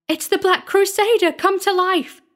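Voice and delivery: very high, loud panicked cry; terrified scream. A narrator's reading. Sexton believes the statue has come alive, screaming. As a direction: scream it in horror, pitch held right up. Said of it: "screamed the sexton".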